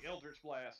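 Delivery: Sam Elliott voice. Retold or imitated. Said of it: "picture Samuel Elliott saying".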